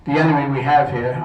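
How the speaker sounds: winded, with short breaths. Real, not acted. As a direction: speak a bit breathless. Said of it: "I'm out of breath".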